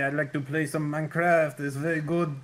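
put-on French accent. Shown as a demonstration. Dan demos his second-best accent for friends, French accent. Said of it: "I think probably French".

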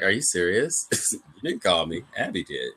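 low, quiet, cold put-down; softly dropped, cold mock retort. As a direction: deliver it icily, imitating her. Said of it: "that was actually a very cold moment".

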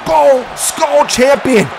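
emphatic, punched-out ring introduction; hype announcer. Acted. Commentator introducing a despised champion, emphatic. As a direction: announce each title with force.

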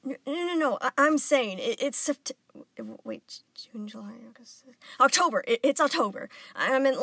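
high, loud stumbling babble; flustered stammer. Acted. Embarrassed boy stammers to explain himself, high. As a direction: trip over the words.

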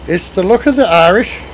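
attempted Irish accent. Streamer teasing an Irish viewer, attempted Irish accent. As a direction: have a hammy go at an Irish accent. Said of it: "I can't do the accent".

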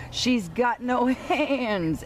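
slow, amused chuckle; laughing. Acted. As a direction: laugh through the joke. Sheep laughs at cow.

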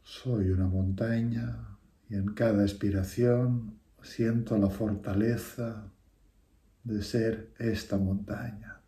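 measured meditation voice with long pauses; guided meditation. Real, not acted. Teacher leading listeners through a breathing meditation, unhurried guiding voice. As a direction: guide them through each breath, phrase by phrase.

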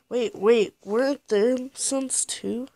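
loud, startled double take; surprised. Real, not acted. Startled by game scene.

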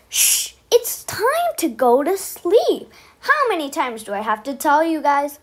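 a touch of a fed-up zebra, dragging it out; annoyed. Acted. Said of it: "The zebra was so annoyed and went".

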